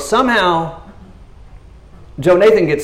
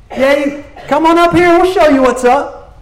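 redneck taunting; 6 dB louder than usual. Retold or imitated. Redneck Philistines jeering from the hilltop, high brash taunt. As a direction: brag down the hill like a cocky redneck.

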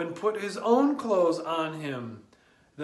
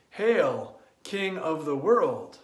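calm, lower hail in honor; slower than usual. Acted. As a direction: greet the true king with reverence. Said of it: "in deep honor and joy".

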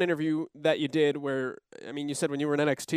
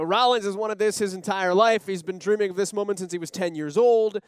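louder, higher broadcast hype read; Cole announcer voice; 5 semitones higher, 5 dB louder than usual. Retold or imitated. Lead announcer hyping Rollins's lifelong dream, louder and higher. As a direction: sell the big moment like a play-by-play man. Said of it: "Cole will say something to the effect of".

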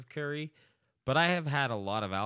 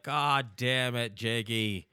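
mock cursing; 3 semitones higher, much slower than usual. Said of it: "I was actually cursing my friend".

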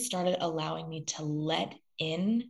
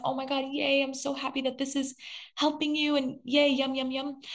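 high-pitched put-on glee; chirpy mock cheer, pitched way up; mock gushing delight; 9 semitones higher than usual. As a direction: gush in a high, cutesy voice, imitating empty enthusiasm. Mimics her past shallow delight.

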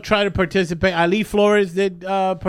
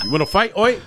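bad Australian accent; 4 semitones higher, faster than usual. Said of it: "but with an Australian accent?".

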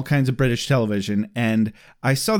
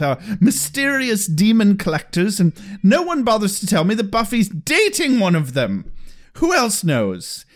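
mild mock Giles rant; 4 semitones higher than usual. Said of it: "Giles just loses his shit".

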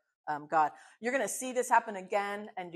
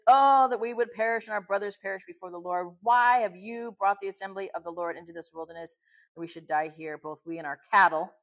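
loud opening, a lightly acted lament; mild quarrelling complaint; 6 dB louder than usual. The Israelites quarrel with Moses in the wilderness, mildly acted complaint. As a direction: read it as a mildly acted protest. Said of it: "they quarrel with Moses".

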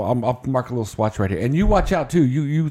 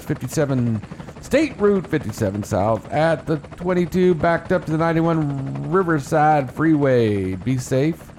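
brisk radio traffic report; traffic report read. Acted.

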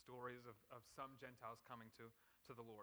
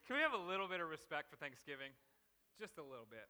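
mock pleading rant; 9 dB louder than usual. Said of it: "that's my rant".

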